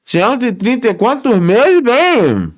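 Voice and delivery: talking with food in mouth; mouth full. Real, not acted. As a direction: say it through a mouthful. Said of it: "Eu falando de boca cheia".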